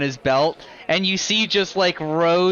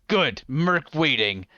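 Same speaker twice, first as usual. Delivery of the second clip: slow, lightly voiced brute; a hint of a satisfied brute; slow blunt brute; 2 semitones lower, slower than usual. Merc to Gorkar accepting the duel, a slow lightly voiced brute.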